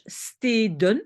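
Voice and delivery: "steden" with a long first vowel; lengthened word demo. Shown as a demonstration. Teacher lengthens stad into its plural, careful demo. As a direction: stretch "steden" so the D is heard. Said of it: "je rallonge".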